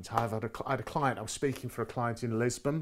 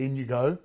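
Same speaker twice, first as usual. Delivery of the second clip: IN YOU GO, slightly louder, tune dropping like an order; downward inflection; 3 semitones higher, 6 dB louder than usual. Shown as a demonstration. Host showing a visitor into the room, downward inflection. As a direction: say IN YOU GO as a firm command, falling at the end. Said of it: "downward voice inflection".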